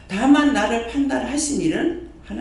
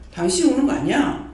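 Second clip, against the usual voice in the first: higher, stronger reproof; firm rebuke; 5 semitones higher than usual. Shown as a demonstration. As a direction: raise it and press the point. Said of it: "그러면 내가 말하죠". (더 높고 단호한 꾸짖음)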